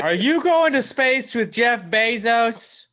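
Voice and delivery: high, slow mock amazement; awestruck family impression. Family marveling at their tech expert, mock awe. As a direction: imitate gullible relatives, pitched right up. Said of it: "They're like".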